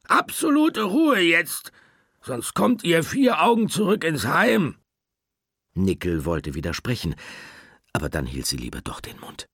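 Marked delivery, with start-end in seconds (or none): 0.0-4.8 hammed-up angry cat; stern scolding. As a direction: warn them sharply to keep still. Schlappi scolds the others.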